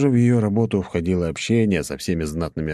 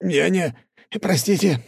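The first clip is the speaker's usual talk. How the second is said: trembling apology; 13 semitones higher, slower than usual. A narrator's reading. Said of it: "затрясся граф".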